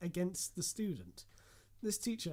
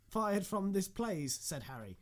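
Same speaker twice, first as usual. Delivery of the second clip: raised pitch, loud urgent complaint; urgent accusation; 5 semitones higher, 6 dB louder than usual. Acted. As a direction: blurt out the accusation, high and loud. Accusing character in dramatic reading.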